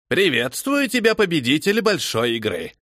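clicky, like a wounded seagull; clicking seagull voice. A narrator's reading. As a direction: squawk it like a hurt gull. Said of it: "прокликотав, будто раненая чайка".

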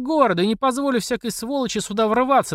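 high, haughty yelling boss woman; brash official laying down the law; bossy official shouting. Acted. Platsekina yells at the flooded-out crowd, high and haughty.

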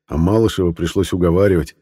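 ordinary delivery

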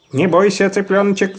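a hint of laughter; laughing. A narrator's reading. Man teases the chick with a light laugh. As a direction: chuckle it out. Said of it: "засмеялся человек".

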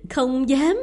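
loud, sneering mimicry; mocking scorn. A narrator's reading. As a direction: throw their words back with contempt. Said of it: "đầy vẻ khinh bỉ".

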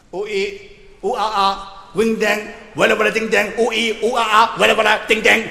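mock gibberish chant. Mock foreign god babble.

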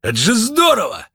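высокий восторженный возглас; воскликнуть в полном восторге; восторг. A narrator's reading. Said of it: "пришёл в восторг". (Лунветр в восторге от кота, громко и высоко)

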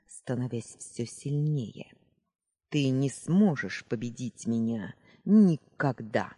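menacing dark sorceress, taunting; gloating villainess. Acted. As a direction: threaten with cold triumph. Villainess gloats at her sister.

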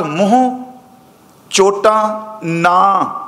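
slow recitation of ਮੋਹ ਚੋਟਾਂ ਨਾ, ending on a long aa; ਨਾ with a full long aa after ਮੋਹ ਚੋਟਾਂ; long-vowel naa. Shown as a demonstration. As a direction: read ਮੋਹ ਚੋਟਾਂ ਨਾ word by word, with ਨਾ held as naa. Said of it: "ਇੱਥੇ ਨੰਨੇ ਨੂੰ ਕੰਨਾ ਲੱਗਾ".

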